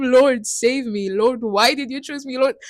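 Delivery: retelling her pleading cry, lightly acted; mock crying out. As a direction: replay your own desperate cry, half-acted. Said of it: "I start crying to him".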